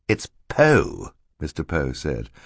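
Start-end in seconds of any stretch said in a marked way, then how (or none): 0.1-1.1 higher "Poe", set apart; correcting a name. Acted. Mister Poe corrects Stefano, with weight on "Poe". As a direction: press firmly on "Poe".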